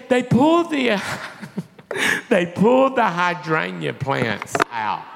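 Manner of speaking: hammed-up distraught blurting, breaking off; mock tearful complaint. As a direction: act out sobbing out the bad news. Acts out his tearful complaint.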